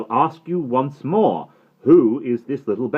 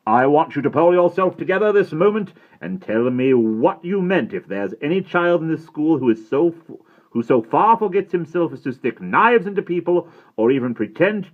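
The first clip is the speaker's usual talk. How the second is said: stern headmaster, higher and louder, fearsome; fearsome tones; 9 semitones higher, 10 dB louder than usual. A narrator's reading. Headmaster demanding the truth from a giggling boy, fearsome. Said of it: "in fearsome tones".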